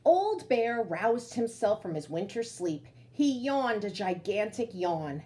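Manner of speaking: slow, drawn-out read-aloud voice; storytelling narration. A narrator's reading. Teacher reading to children, slow storybook narration.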